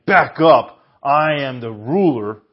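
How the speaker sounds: barked, loud "back up"; mock domineering. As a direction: shove it in their face. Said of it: "thrown in their face saying".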